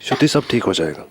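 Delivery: low, gentle goodbye; reassuring. Acted. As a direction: soothe her quietly as you leave. Fiancé reassures her before leaving.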